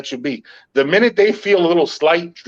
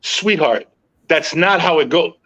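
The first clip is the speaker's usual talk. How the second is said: calm sweetheart; slower than usual. Retold or imitated. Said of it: "I look at her and I go".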